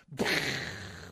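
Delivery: short breathy burst of noise; imitated blow-up noise. Telling of a jump off the dock, imitated blow-up noise. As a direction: make the sound of something blowing up. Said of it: "blew up".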